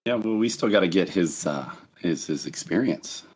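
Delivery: hoarse, croaky voice; rough throat, croak through it; frog voice. Real, not acted. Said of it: "you're unbearable with the frog voice".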